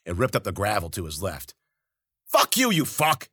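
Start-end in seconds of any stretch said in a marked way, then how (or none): 2.2-3.3 high, loud, slow angry yell; furious yell. Acted. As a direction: spit it back in rage. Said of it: "he yelled".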